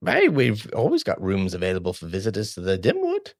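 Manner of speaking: lightly voiced halfling innkeeper; a hint of comic innkeeper; Sylveth. Innkeeper offering rooms to visitors, lightly put-on voice. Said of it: "what does Sylveth sound like".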